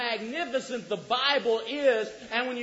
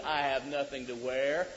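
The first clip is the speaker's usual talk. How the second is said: wife quote; 9 semitones lower, 4 dB quieter than usual. Retold or imitated. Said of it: "When she says to you".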